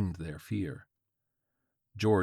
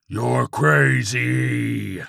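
long, loud drawn-out yell; screaming; 4 semitones higher, 10 dB louder, much slower than usual. A narrator's reading. Terrified old man accuses George, drawn-out scream. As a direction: stretch the scream over every word. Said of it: "the Antichrist screamed".

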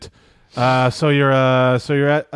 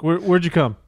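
put-on girl's question; 6 semitones higher than usual. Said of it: "You're like".

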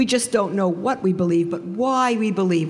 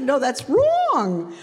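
firm refusal; 6 semitones higher, much slower than usual. Retold or imitated. Flat refusal to her brother.

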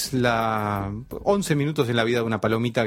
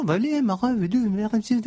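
high mock French gibberish; fake French; 12 semitones higher than usual. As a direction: ham up invented French words. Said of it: "en francés inventado".

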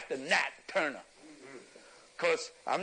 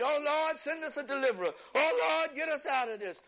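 higher, pleading cry to the Lord; imitated desperate prayer; 6 semitones higher than usual. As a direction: beg the Lord like frightened folks at prayer. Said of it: "We prayed".

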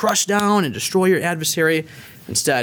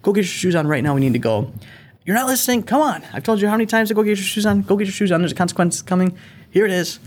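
put-on raised, higher-pitched impatient yelling at the kids; mock yelling dad; 6 semitones higher than usual. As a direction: play the rushed dad barking at late kids. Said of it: "give myself permission to yell at my kids".

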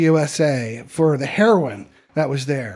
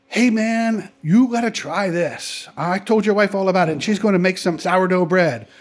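colorful hippie character; 2 semitones higher than usual. Acted. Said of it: "That's the kind of guy he was".

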